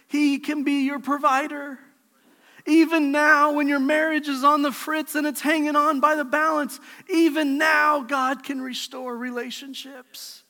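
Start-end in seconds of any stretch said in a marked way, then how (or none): 2.6-10.4 rising preacher's cry; preaching build. Real, not acted. Pastor rallying the congregation, loud and rising. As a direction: lift the congregation with each "even now".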